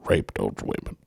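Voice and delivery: low, slow throaty mumble; Bill Cosby. Acted. Showing a friend the comic's talk, throaty impression. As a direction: drag it from the back of the throat, dying away. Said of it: "he talks from the back of the throat".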